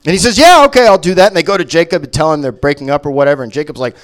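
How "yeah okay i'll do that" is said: eager yes. Acted. Edward agreeing eagerly.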